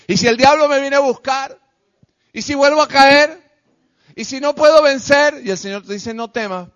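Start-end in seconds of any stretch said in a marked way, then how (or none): 0.1-5.4 acted worried questions. Voicing a believer's worried questions.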